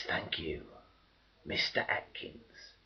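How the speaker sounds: hushed, breathy whisper, slowed; soft sarcastic whisper; whispered thanks. Acted. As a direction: whisper it like a grudging thank-you. Refrain of the civilian quote.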